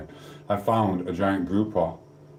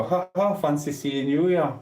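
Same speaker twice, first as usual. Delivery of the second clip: mock surprise; 7 semitones higher than usual. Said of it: "I'll go".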